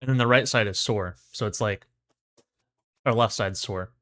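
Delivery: numb mouth after fillings; numb from the dentist. Real, not acted. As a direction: speak through a numb mouth. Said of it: "my mouth is still numb".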